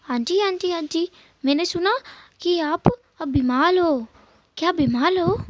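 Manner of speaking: put-on high, slow, innocent child voice; little boy's voice. Narrator voices little boy Jingi. (ऊँची, भोली बच्चे की आवाज़)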